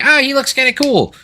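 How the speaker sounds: put-on high, eager kid voice; young kid voice. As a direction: gush like an excited kid. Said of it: "I was like".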